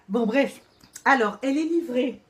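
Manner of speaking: strained words while holding breath. Real, not acted. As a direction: push it out with no air left. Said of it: "Les gars, je suis en apnée". (en apnée, la voix serrée)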